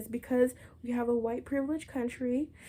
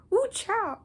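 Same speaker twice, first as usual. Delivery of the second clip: amused shock; 13 semitones higher, 6 dB louder than usual. Real, not acted. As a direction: squeal it in amused disbelief.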